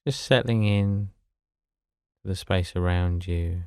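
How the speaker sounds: level, unhurried meditation voice with long pauses; guided meditation. Acted. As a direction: gently guide them to settle, phrase by phrase.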